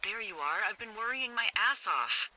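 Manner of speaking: high, relieved outburst; worried relief. Acted. Lookout to her missing friend back on radio, worried relief. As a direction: pitch jumps up, relieved and scolding.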